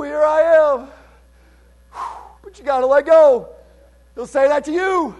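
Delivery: high, loud revival-preacher cry; fervent, shouted testimony, pitched well up; impassioned preaching. Real, not acted. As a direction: cry it out at the peak of the sermon. Climax of the sermon.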